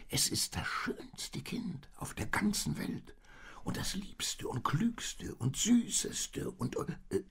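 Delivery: high, drawn-out bleating sheep voice; high-pitched storybook sheep. A narrator's reading. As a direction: gush on slowly as a bleating sheep. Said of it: "blökte das Schaf weiter".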